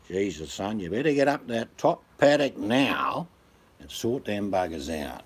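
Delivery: lightly acted Aussie farmer father; a touch of gruff country dad; Dad from Dad and Dave. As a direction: order the son about in broad bush talk. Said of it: "That actor sounded like that acting".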